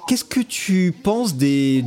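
ordinary talk

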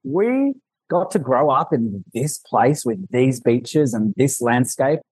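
a retold burst of wonder slowing into reverie; imitating his own amazement at home; awed, marvelling. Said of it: "I literally am like".

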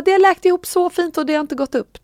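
high-pitched imitation of pleased praise; delighted gushing. Voicing the doctor's delight at healing.

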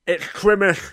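loud, high burst of Christmas joy; excited kid. Retold or imitated. Child waking up realising it's Christmas, excited shout. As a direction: gasp then shout it like a thrilled child.

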